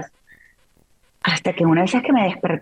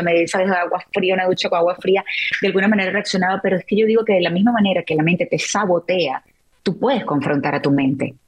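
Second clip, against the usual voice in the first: usual speaking voice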